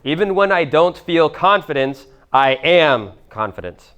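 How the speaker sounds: slow, each word set apart for writing down; slow, deliberate dictation to the room. Shown as a demonstration. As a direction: dictate it slowly so they can write it. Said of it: "Write this down also".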